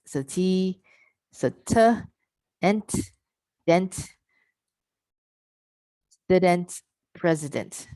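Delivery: "T", "ent", "dent", "student", "president" built up syllable by syllable, high; back-chain drill. Shown as a demonstration. Teacher drills president with the group, syllable by syllable. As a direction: build it from the end. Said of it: "I would add in the N T".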